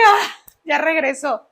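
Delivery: drawn-out, mildly amazed relief; retold relief. Mother seeing her son recognise her, relieved.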